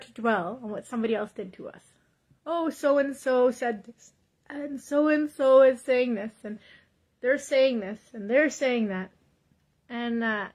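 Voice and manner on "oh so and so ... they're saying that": slow, louder whiny complaining about others; playing the victim. Preacher mocking people who dwell on gossip, whiny and slow. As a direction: moan about what everyone said, dragging it out. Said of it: "we play victim".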